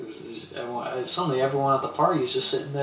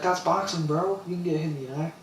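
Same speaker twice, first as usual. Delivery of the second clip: much higher, teasing bro voice; crowd mocking; 5 semitones higher than usual. Party crowd teasing the hit opponent, higher jeering. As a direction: tease the complainer like a rowdy crowd. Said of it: "Everybody was like".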